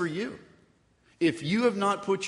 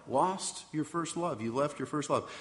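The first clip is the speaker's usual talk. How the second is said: soft reflective repeat; 6 dB quieter than usual. Acted. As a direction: echo the words "Lost your first love" quietly to himself. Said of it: "And what in the world is that about?".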